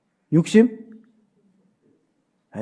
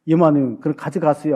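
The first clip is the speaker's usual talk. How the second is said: as if doing a favor; 3 semitones lower, 3 dB quieter than usual. Retold or imitated. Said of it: "선심 쓰듯이 주는 거야".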